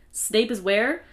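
a startled question, lifted on WHERE; mock double take. Retelling Harry's jump scare at news of Snape, mildly startled. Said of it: "does a double check, like, double take, like, jump scare".

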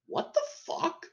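a high, breathy gasp of disbelief, mostly without voice; airy, high-pitched what-the-fuck; imagined shock. Retold or imitated. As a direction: play the stunned teacher muttering under his breath. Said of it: "he was just like".

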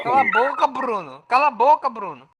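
loud, high shout. Acted. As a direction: yell shut up. Shouting shut up at Bruno.

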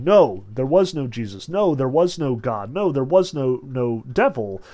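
mildly imitating someone's insistence, each NO landed firmly; insistent denial. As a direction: keep denying, point by point. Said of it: "Berlioz is constantly insisting".

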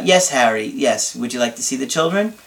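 flat robotic monotone. Shown as a demonstration. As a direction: talk like a calm robot. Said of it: "talk to him kinda like a robot".

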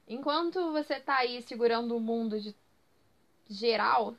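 put-on old lady using slang. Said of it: "Parece uma senhora falando gírias". (como uma senhora falando gírias)

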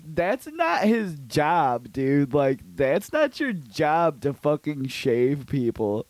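slow scolding. Retold or imitated.

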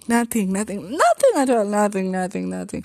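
high, pleading, slowed-down lament; anguished high retelling. Retold or imitated. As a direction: wail it out like it still hurts. Retelling heartbreak, rising emotion.

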